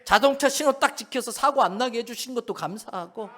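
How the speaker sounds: loud, rising preacher's litany; fervent preaching. Acted. Preacher urging the congregation, loud fervent litany.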